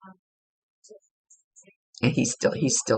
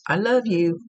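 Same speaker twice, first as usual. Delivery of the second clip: higher-pitched, lilting "I love you"; imitated far-off call; 6 semitones higher than usual. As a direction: imitate someone calling from the next aisle. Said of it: "but they're a little bit far off".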